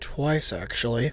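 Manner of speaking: muttered, whispered under the breath. Parker answers JJ's complaint about Spider-Man, under his breath. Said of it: "[under breath]".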